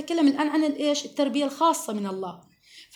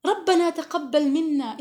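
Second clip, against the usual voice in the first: pleading prayer; 2 semitones higher, slower than usual. Shown as a demonstration. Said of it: "دائمًا إشفاق".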